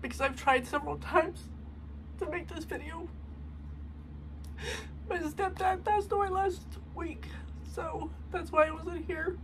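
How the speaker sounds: teary, high, cracking voice; crying. Real, not acted. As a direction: voice breaking while crying. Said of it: "I'm crying".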